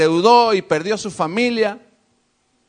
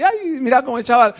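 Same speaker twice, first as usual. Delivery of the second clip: high, gushing "ay, mira" voice; delighted onlooker; 5 semitones higher than usual. Retold or imitated. Preacher voicing a charmed onlooker, high and gushing. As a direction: coo like a charmed bystander.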